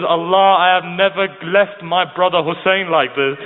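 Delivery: imploring, slow drawn-out plea; mildly impassioned retelling of a tearful plea; retold tearful prayer. Sister pleads with Allah for her brother, retold tearful prayer. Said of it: "she was crying".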